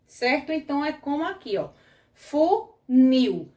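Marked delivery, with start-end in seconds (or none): 2.1-3.5 "funil" split in two, nil punched louder; stress on last syllable. Shown as a demonstration. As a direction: hit the nil of "funil" hard. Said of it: "A gente percebe mais o nil".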